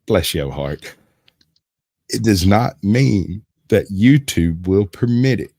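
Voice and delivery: put-on lightly drawn-out Tennessee accent; slow Southern accent. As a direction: stretch every word, Tennessee style. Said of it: "My Southern accent's a little quick for some folks".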